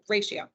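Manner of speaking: "ratio" plainly corrected, sh instead of d; corrected pronunciation. Shown as a demonstration. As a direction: say "ratio" as RAY-shee-oh. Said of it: "not radio".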